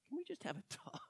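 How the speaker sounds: hushed aside to Peter; whisper. Retold or imitated. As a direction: whisper it like a private word with a friend. Jesus taking Peter aside.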